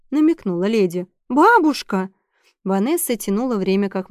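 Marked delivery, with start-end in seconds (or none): 1.3-2.1 higher, louder scandalized cry of Бабушка; Бабушка called out in embarrassed protest; shocked reproach. Acted. Vanessa scandalized by grandmother's hint.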